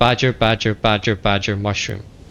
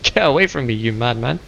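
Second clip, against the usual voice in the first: mock shooing. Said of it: "I would hate that in real life".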